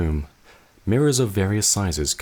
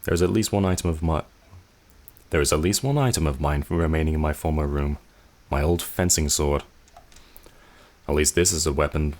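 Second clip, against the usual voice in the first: normal talking voice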